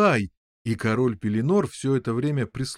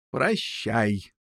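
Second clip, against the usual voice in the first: lower, subdued goodbye; wizard's farewell; 4 semitones lower than usual. A narrator's reading. Merlin answering the boy's goodbye, low farewell.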